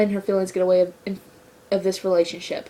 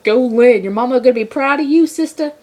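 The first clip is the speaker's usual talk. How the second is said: sassy cheer; 2 semitones higher, 4 dB louder than usual. Retold or imitated. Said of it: "I'm like".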